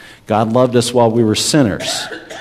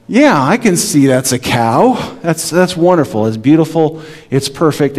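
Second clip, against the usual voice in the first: gushing parent praise; 4 semitones higher than usual. Retold or imitated. Parent praising child's drawing.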